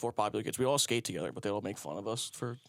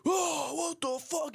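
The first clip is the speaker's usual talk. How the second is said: much higher, slow mock outrage; imitating upset kid; slower than usual. Mean skater kid seeing him eat snot, mock-outraged high whine. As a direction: whine it like a disgusted bully. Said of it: "He all upset".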